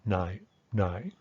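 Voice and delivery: first "Nai" with complex tone, second "Nai" simple; full then reduced "Nai". Shown as a demonstration. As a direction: contrast the two "Nai" tones. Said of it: "this complex tone is gonna become this simple tone".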